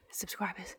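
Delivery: self-mocking aside, whispered; sheepish whisper. Real, not acted. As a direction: whisper the word as a small confession. Joking about thirteen subscribers.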